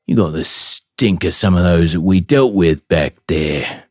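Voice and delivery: orc snarling and suspicious, rising to a shout; angry orc guard. Acted. Orc guard catching Gret in the shadows, angry shout. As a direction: bark at the intruders like an orc.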